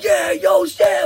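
high shouted cheer; hype cheer. Retold or imitated. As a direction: pump up the crowd. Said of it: "we're like".

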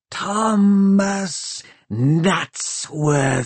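very slow, drawn-out inhuman voice; machine creature voice. A narrator's reading. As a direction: let each syllable stretch like a machine. Undead machine names Tom.

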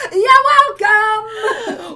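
drawn-out laughing mock-proud. Real, not acted. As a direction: say it slowly through laughter.

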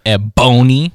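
Ebony with a long, punched middle "bone"; stress on BONE in Ebony. Shown as a demonstration. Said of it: "requires too much emphasis on that word".

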